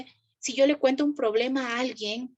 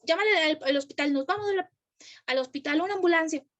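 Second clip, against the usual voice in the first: mock panic; 4 semitones higher than usual. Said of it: "yo puedo decir".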